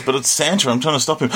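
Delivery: put-on pleading kid voice. Dib pleading quote.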